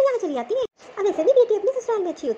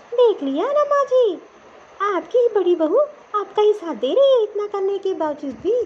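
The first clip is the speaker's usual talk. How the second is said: sarcastic jab; 3 dB louder, slower than usual. Acted. Younger daughter-in-law taunting her mother-in-law, sarcastic. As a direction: rub the betrayal in, drawn out.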